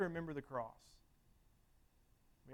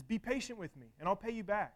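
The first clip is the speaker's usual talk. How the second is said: mild pleading; 4 semitones higher than usual. Retold or imitated. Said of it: "says the same exact thing".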